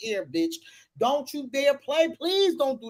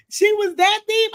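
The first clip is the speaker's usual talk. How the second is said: shocked; 11 semitones higher, 9 dB louder than usual. Real, not acted. Host shocked by comment.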